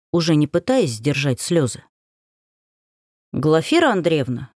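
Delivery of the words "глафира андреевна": guilty pupil tone. Acted. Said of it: "Таким тоном мои ученики признавались".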